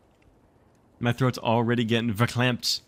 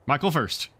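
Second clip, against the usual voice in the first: dogged; 6 semitones higher than usual. Acted. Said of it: "he said doggedly".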